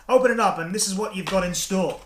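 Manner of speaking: game-show reveal to wife; showy reveal. Acted. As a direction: present it like a prize reveal. Showman presenting the gift box.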